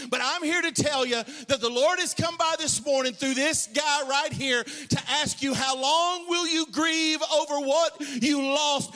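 full-force preaching. Acted. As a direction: build the sermon to its peak, half singing. Preaching climax.

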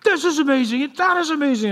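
put-on high, wide-eyed kid voice; amazed kids. Father imitating his sons at Disneyland, high awed kid voice. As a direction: gush like a thrilled four-year-old. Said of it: "my son Jonathan and Andrew are just like".

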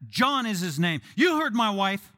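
loud, firm husband, stretching "John"; emphatic John. Acted. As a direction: land hard on "John", then raise pitch to back the wife. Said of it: "it's emphatic".

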